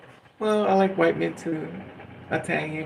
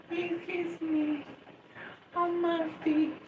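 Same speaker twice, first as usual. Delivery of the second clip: much higher, slow, dreamy gushing; swooning lovestruck voice; 12 semitones higher, 5 dB quieter, slower than usual. Pretend. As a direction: swoon over him like a lovesick girl. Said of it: "well, let's not push it".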